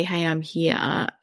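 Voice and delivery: slow, soft and gentle; gentle invitation. Retold or imitated. Mother gently inviting teen.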